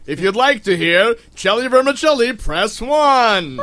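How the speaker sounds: automated phone menu voice; vending machine voice. Pretend. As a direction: read it like a recorded phone prompt. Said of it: "Do I sound like the guy?".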